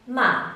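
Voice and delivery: "ma" falling from high; fourth tone. Shown as a demonstration. Demonstrating the fourth tone to learners, "ma" falling. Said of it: "fourth tone decreases in pitch".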